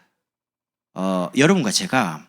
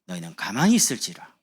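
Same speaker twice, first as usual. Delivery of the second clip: 성경 말씀을 선포하듯 천천히; scripture proclaimed; 4 dB louder than usual. Acted. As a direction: declare the verse over the church. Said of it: "어떻게 된다고요".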